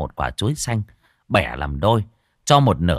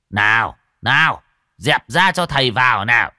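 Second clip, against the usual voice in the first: calling out; 3 semitones higher, 4 dB louder than usual. Acted. Healer pushes through crowd.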